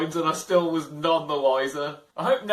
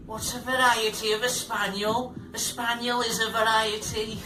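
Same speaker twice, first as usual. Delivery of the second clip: mocking Karen; 5 semitones higher than usual.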